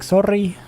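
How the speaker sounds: "Sorry" with the R rolled. Retold or imitated. Retelling a word said to a wife, rolled R. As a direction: roll the R in "Sorry" playfully. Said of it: "start rolling my R's randomly".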